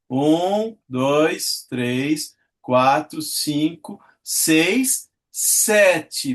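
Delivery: each count spaced, rising tune; counting syllables. Shown as a demonstration. Teacher scanning the verse for students, counting syllables. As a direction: tick off the syllables one by one. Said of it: "sete sílabas métricas".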